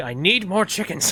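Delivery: deranged mad scientist inventor voice. Speaker notes the way they say this line, in a mad scientist voice. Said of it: "I sound like a mad scientist".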